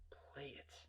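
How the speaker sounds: very soft, menacing whisper; barely voiced threat; whispered demand. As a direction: whisper the order.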